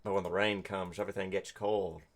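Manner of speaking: low, moody noir narration; a hint of a hard-boiled detective. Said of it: "detective noir voice".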